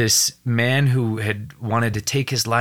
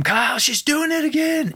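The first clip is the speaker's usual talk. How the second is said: retold yell. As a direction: shout it down to him in alarm. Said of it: "I yelled down to him".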